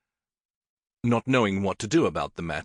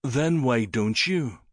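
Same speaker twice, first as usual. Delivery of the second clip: arrogant challenge; 3 semitones higher, slower than usual. Acted. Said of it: "Syn cocked one arrogant brow and asked".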